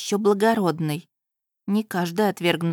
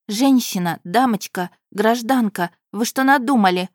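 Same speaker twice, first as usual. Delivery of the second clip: louder, rising alarmed calls; alarmed shout; 3 semitones higher, 5 dB louder than usual. Acted. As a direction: stop her, urgent. Heroine stops the woman.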